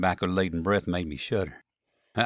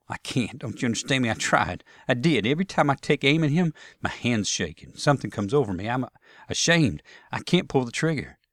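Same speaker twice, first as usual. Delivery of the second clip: higher-pitched Southern protest; distressed Southern soldier; 4 semitones higher than usual. Acted. Jeb confessing he can't pull the trigger, distressed. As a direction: plead to be understood.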